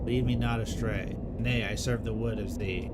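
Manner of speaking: lightly voiced solemn forest folk, old-fashioned speech; a hint of a grave medieval woodcutter questioning trees; archaic woodland dialogue. Voices archaic tree characters in dialogue.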